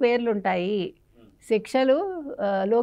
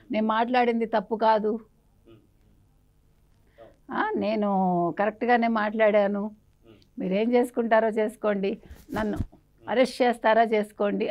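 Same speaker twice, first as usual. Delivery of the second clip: mock defiant quote. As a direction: imitate him shrugging it off, a touch cocky. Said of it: "మూడు రోజుల తర్వాత ఏమన్నాడు".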